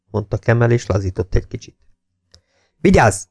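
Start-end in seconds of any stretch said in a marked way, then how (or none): 2.8-3.2 high, contained bellow; a storyteller's raised-voice military command; narrated bellow. A narrator's reading. Jakes orders Kemel to attention, a contained high-pitched bellow. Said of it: "üvöltötte Jakes".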